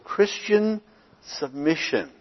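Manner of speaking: pause, then land "submission" deliberately; stress on submission. Real, not acted. Preacher quoting a scholar on Christian submission, emphasizing "submission". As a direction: set "submission" apart after a pause. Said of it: "That's why I emphasize that word".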